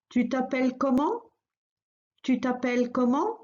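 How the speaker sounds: "Tu t'appelles comment?" said twice, a rising tune on "comment"; repeated model phrase. Shown as a demonstration. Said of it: "Let's repeat it a few times".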